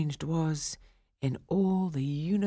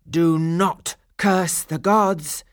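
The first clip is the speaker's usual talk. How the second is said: slow, a bit louder solemn chorus; lightly voiced stone nymphs; 2 semitones higher, 6 dB louder, slower than usual. A narrator's reading. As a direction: warn him gravely as one. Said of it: "they said in chorus".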